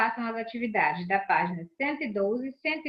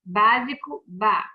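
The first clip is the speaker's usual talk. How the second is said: "básico" loud, then "ba" punched alone; stressed syllable shown; 5 dB louder, slower than usual. Shown as a demonstration. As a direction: hit the first syllable of "básico", then repeat it as "ba". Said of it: "a sílaba mais forte é".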